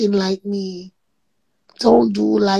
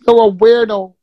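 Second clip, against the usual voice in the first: louder, punched-out "You're a weirdo"; loud insult; 6 dB louder than usual. Real, not acted. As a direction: throw "You're a weirdo" at her, full voice. Insulting the host in anger.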